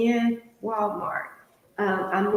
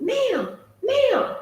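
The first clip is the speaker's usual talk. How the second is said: mock call; 9 semitones higher than usual. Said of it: "he yelled at me".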